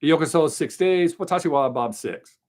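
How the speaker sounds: put-on reciting his old Japanese-language intro, announcer-like; Japanese channel intro. Shown as a demonstration. Host reciting his old Japanese channel intro to chat, lightly announced. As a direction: greet viewers in Japanese as in the old videos. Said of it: "my introduction used to be".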